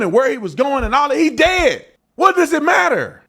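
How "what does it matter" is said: 1 angry question. Real, not acted.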